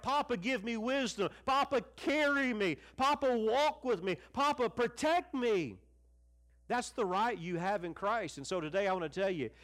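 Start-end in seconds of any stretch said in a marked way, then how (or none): 0.0-5.8 higher, pleading prayer to a father; crying out in prayer. Retold or imitated. Preacher acting out his daily prayer to Papa, raised and pleading. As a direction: plead with each line like a child reaching up. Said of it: "I cry out".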